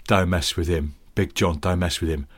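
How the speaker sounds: low, mock-reverent Cockney warning; lightly voiced Cockney vouching for a boss; Cockney respect. Local warns others off Big John, low Cockney respect. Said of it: "Cockney marks of respect".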